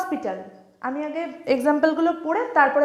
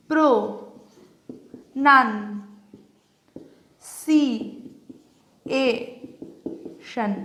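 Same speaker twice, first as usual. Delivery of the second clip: "প্রো, নান, সি, এ, শন" one at a time, long pauses; syllable by syllable; slower than usual. Shown as a demonstration. Teacher dividing the word into syllables, syllable by syllable. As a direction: isolate each of "প্রো, নান, সি, এ, শন". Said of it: "এবার এর syllable ভাগ করি".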